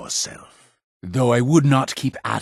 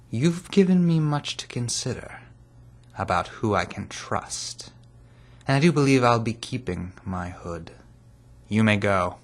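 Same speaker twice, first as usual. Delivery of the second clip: brisker delivery. Acted. Leader dismissing an informant, brisker delivery. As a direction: keep the dismissal moving.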